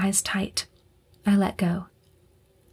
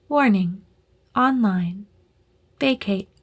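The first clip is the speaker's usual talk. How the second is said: computer voice. Acted. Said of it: "A computerized voice".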